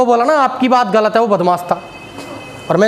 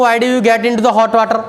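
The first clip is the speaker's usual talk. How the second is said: slow, deliberate question; much slower than usual. Retold or imitated. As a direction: put the question slowly. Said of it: "अब मैं किसी को बोलूँ". (किसी से धीरे-धीरे पूछते हुए)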